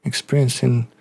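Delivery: lightly voiced hesitant Frenchman; halting delivery, a touch of French accent; French-accented doctor. Doctor telling players about diseases he has had, lightly French-accented.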